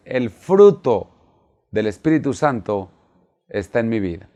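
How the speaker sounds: feed it out in short chunks to repeat; leading a repeat-after-me. Shown as a demonstration. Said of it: "diga conmigo".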